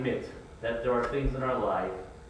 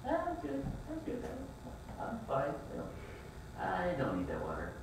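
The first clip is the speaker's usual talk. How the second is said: dismissive refusal; 4 semitones higher, 12 dB quieter than usual. Retold or imitated. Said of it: "declining water".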